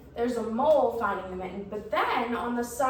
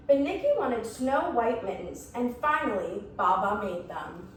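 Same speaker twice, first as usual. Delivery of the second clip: lively, measured storybook reading; story narration. A narrator's reading. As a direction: read a picture book to young children. Reads a picture book to children.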